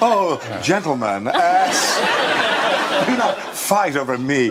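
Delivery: lightly done Southern Belle plea through laughter; coy Southern Belle, barely held; Southern Belle accent. Pretend. Host teasing two panelists in a faint Southern Belle accent. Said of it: "I love it when you do that accent".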